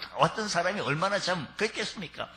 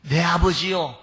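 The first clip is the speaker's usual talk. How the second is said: much higher, louder wailing plea; pleading cry; 10 semitones higher, 5 dB louder than usual. Acted. Esau crying to father for any blessing left. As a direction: beg the father through tears. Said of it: "소리내 울며".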